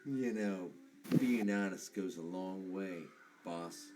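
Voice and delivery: put-on GM's NPC in a Boston accent, casual. GM's character needles the boss in a Boston accent. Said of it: "you got some Boston accent over here?".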